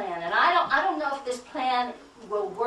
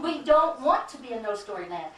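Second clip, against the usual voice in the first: quoted conference voice. Acted. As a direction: voice the conference as a slogan, lightly. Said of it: "Your conference is saying".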